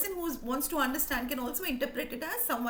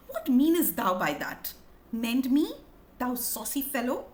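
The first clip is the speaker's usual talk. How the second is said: mildly angry challenge, louder at first; irked; 4 dB louder than usual. Acted. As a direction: demand an explanation with mock indignation. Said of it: "Marullus is obviously irked. He's angry".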